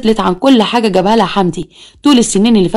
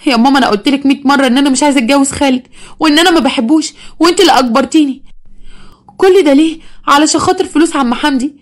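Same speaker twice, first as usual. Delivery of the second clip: upset daughter protesting; 5 semitones higher than usual. Acted. Daughter protests to her mother.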